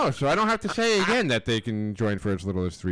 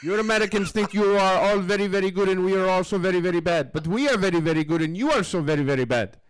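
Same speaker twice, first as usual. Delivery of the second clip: mock Russian accent; 5 semitones higher than usual. Mocking Americans in a high hammed-up Russian accent. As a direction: ham up a Russian villain in the accent.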